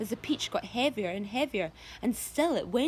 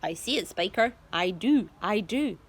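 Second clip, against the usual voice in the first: eager Sponge; 5 dB louder than usual. A narrator's reading. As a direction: agree breathlessly. Sponge replies excitedly.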